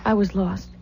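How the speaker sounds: breathy broken whisper. Acted. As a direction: whisper it, lost and grieving. Grieving over father's death.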